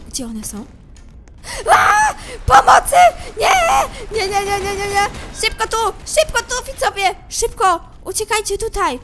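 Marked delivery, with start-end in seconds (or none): 1.7-2.1 very high, loud scream; terrified scream. Real, not acted. Monster attack in the game. 2.5-9.0 loud, high cries for help; panicked yelling. Real, not acted. Calling for help, fleeing monsters.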